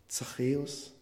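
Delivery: a soft, intimate calling of a name; personal, tender call. Shown as a demonstration. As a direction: say his name as if only to him. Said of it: "Er meinte nur ihn, ganz persönlich".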